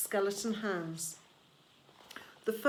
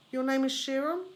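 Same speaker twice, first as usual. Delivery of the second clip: bewildered; 5 semitones higher, 3 dB louder than usual. A narrator's reading. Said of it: "in bewilderment".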